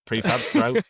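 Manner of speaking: high, excited reading of a cassette name; excited British Tubbs. Pretend. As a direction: gush over the tape like a fan. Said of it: "and he's like".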